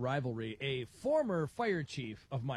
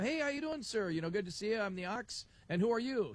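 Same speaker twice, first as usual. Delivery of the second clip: friendly on-air greeting; 5 semitones higher than usual. Retold or imitated.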